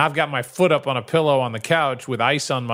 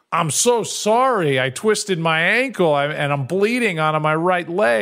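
mock defensive apology; 4 semitones higher than usual. Husband apologizing to frustrated wife, pleading and defensive. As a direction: plead your innocence a bit too much.

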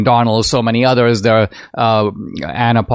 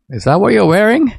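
wife's voice; 8 semitones higher than usual. Retold or imitated. Wife questioning his outfit.

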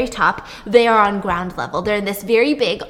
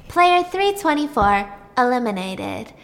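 lightly done robot announcement. Retold or imitated. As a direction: announce it like a machine. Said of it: "And the robot says".

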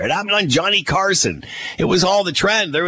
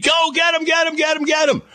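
mock shouted order; 11 semitones higher than usual. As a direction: bark the chase order. Security guard calling after streaker.

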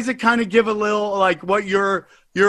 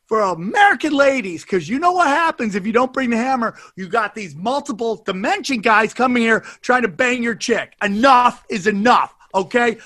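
sponsor ad read. Acted. Host hypes the sponsor to listeners, pumped ad read. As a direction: sell it like a late-night infomercial.

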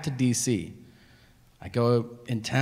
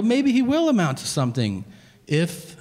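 pointed retort; 5 semitones higher than usual. Retold or imitated. Caller pushes back at the father.

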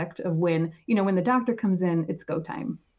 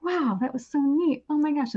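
excited; 8 semitones higher than usual. Retold or imitated. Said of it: "I just got so excited".

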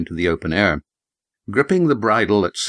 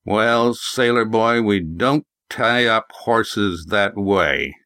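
put-on slow, talking down old farmer; condescending old prospector; much slower than usual. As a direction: lecture him slowly and smugly. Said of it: "His voice was condescending".

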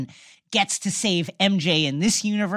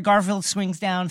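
normal talking voice

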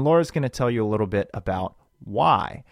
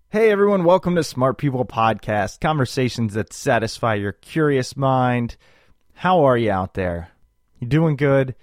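radio host voice. Acted. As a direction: open like a morning DJ. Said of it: "my I just woke up radio voice".

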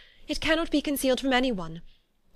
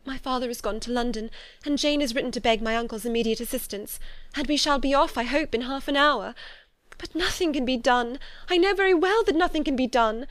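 higher, agitated voice, building louder; despairing; 6 semitones higher, 5 dB louder than usual. A narrator's reading. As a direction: lose all hope as you speak. Despairing over sister's hopeless situation.

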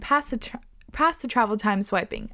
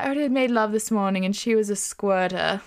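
attempted French accent. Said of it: "That wasn't a French accent".

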